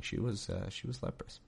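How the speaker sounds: whispered, voiceless, she was leprous; whispered aside. Real, not acted. Reader confides to listeners in a whisper. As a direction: drop to a hushed whisper. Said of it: "Yeah, I wasn't joking".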